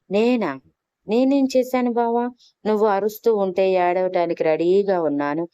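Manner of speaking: high, wide-eyed innocent act; feigned innocence. Acted. Wife playing innocent after kissing her husband, pitched high. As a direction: play dumb, all innocence. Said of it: "అని అమాయకంగా మొహం పెట్టి".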